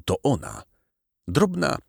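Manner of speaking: usual speaking voice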